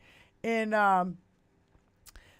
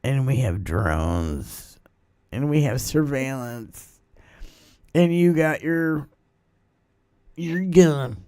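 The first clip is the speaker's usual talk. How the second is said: slow, much lower menacing voice; Keith Olbermann; 10 semitones lower, slower than usual. Retold or imitated. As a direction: drop low and slow, each line a threat. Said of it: "He's like".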